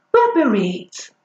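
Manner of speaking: mock northern English "reet" for right; playful northern accent; northern dialect. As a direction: put on a Yorkshire twang for "reet". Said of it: "I've clearly mastered dialect".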